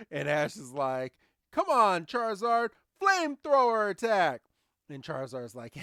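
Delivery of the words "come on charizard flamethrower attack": high, loud trainer's order; acted battle command. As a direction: call out the attack like a trainer. Acting Ash commanding his Pokemon.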